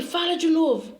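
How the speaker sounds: acted stern command; retold command. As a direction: demand a repeat, as the stranger did. Retold stranger giving orders.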